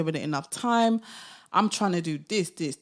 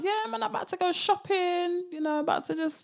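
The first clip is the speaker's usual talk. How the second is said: playful swagger; 10 semitones higher than usual. Acted. Mock shopping boast.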